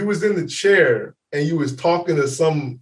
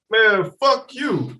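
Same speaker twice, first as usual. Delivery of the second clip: put-on slow drunk rebuff; 4 semitones higher, much slower than usual. Drunk friend repeats rebuff.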